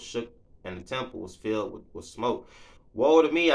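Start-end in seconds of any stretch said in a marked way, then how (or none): 2.9-3.5 loud, higher cry of woe. Acted. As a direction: wail it out in dismay. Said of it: "I cried".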